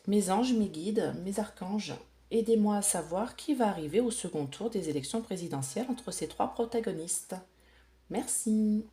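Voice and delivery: lilting, measured prayer to spirit guides; invocation. Real, not acted. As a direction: call on your angels in a gentle singsong. Invokes angels and guides. (invocation aux anges, légèrement chantante)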